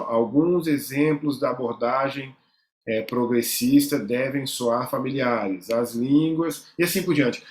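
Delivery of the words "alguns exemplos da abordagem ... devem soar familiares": slow, word by word, as if following a finger; slow finger-tracing read. Shown as a demonstration. Teacher tracing the line with a finger, reading slowly. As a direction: drag each word out while underlining it left to right. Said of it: "aí você risca assim".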